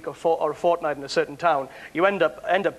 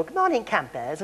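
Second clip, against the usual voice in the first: lightly mocked all-purpose Welsh accent; stereotyped Welsh accent. Shown as a demonstration. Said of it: "one accent, you know, which is".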